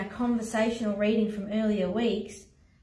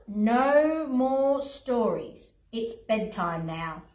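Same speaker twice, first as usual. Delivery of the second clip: weary bedtime firmness; firm refusal; much slower than usual. Acted. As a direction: put your foot down slowly, dropping at the end. William refuses lion another story.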